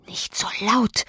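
angry hushed whisper; furious whisper. A narrator's reading. Housekeeper silencing the panicking maid, furious whisper. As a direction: hiss it under your breath, furious. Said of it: "flüsterte ich wütend".

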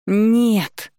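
high loud scream of no. A narrator's reading. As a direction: scream with all your strength. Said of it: "заорала я, что есть сил".

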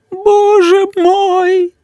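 slow, high wailing moan; mother keeps wailing at the stain; moaning again. A narrator's reading. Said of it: "простонала мама".

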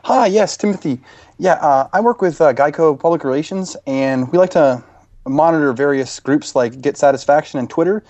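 a hint of an insurance PR man, pushy; customer service rep. Prank caller posing as Geico rep.

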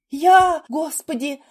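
high, loud distraught outburst; sobbing panic. A narrator's reading. Nurse accused by the surgeon, sobbing in panic. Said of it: "всхлипнула медсестра".

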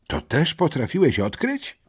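zdumione pytanie szeptem. Acted. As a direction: szepnij z podziwem. (bezdźwięczny szept)

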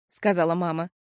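plain reading voice

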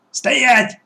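high-pitched sharp halt order; commanding. A narrator's reading. Gang boss halts the children at the hatch, commanding. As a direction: call a sudden, high halt. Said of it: "скомандовал Черногорская".

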